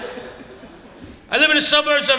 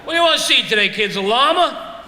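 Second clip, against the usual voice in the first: zoo worker; 4 semitones higher than usual. Retold or imitated. Zoo worker offers kids an animal.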